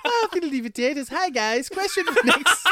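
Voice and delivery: high, loud hammed-up Irish; Irish accent. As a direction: find your way into a comic Irish accent. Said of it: "it's his go-to phrase".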